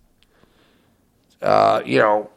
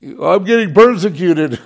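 mocking whiny Christian. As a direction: parody a self-pitying believer. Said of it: "they would mock me".

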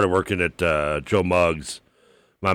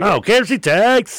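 tag; 12 semitones higher, 5 dB louder, slower than usual. Pretend. Hams up the texts' name.

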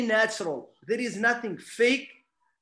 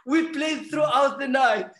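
louder and higher, hyped up; excited; 3 semitones higher, 3 dB louder than usual. Real, not acted. Guest recalls eating pecan pie with his friend, excited. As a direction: relive the thrill of that night.

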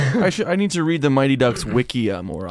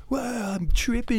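slow, high-pitched spaced-out voice; mock tripper; 11 semitones higher, slower than usual. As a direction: draw it out like someone amazed by drugs. Mocks being very high on acid.

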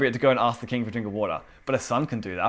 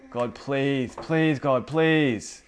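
mock begging prayer; 3 semitones higher, much slower than usual. Worshipper praying as if God were unwilling, mock begging. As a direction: imitate someone begging God, leaning on each please. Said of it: "I can hear it in how we pray".

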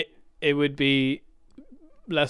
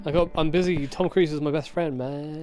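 J J Abrams. Retold or imitated. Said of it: "That's how J J Abrams speaks".

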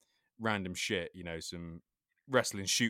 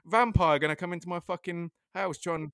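high, loud mock panic; panicked thought; 9 semitones higher, 5 dB louder than usual. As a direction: ham up the bat-vampire fear. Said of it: "and I'm thinking".

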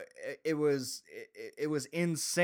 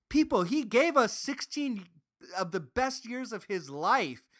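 impassioned plea; 6 semitones higher than usual. Retold or imitated. Impassioned rant defending Brett Favre.

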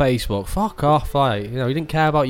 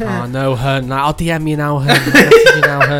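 mocking Facebook girl. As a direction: squeal it like a fake-caring friend online. Mocking Facebook girls replying.

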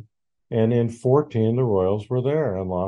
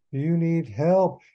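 exasperated plea; 7 semitones higher, slower than usual. Real, not acted. Repeating his advice to the owner.

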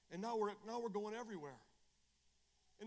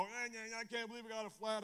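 mock complaining; 5 semitones higher than usual. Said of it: "I don't sit there and go".

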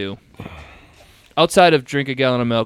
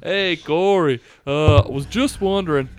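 put-on southern accent. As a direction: play a folksy Southerner hosting a show. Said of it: "gonna do a southern one".

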